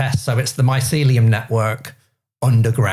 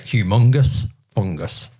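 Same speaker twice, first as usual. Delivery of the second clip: Humongous fungus in a northern British accent, lower and slower; 4 semitones lower, slower than usual. Shown as a demonstration. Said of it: "when said with a northern British accent".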